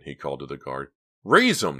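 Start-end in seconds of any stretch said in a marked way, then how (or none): 1.2-1.8 high, loud shout; explosive guard's yell; bellowed order. A narrator's reading. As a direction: bellow the command. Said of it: "the guard bellowed".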